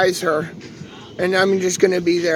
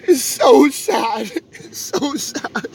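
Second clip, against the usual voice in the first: tearful; 3 semitones higher, much slower than usual. Real, not acted. Crying over uncle's cancer.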